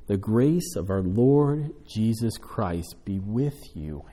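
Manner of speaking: slow, measured benediction reading; scripture reading. Acted. Pastor reads the closing verse to the congregation, slow and measured. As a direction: read the blessing slowly over them.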